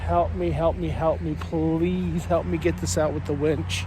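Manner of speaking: breathless, out of breath pleading; out of breath from hauling rope. Real, not acted. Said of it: "I'm out of breath".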